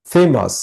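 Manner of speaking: ফেমাস with the weight on its first syllable, ফে; stress on ফে. Shown as a demonstration. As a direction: lean on ফে in ফেমাস. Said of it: "এই যে এইভাবে". (ফেমাস-এর ফে অংশে জোর)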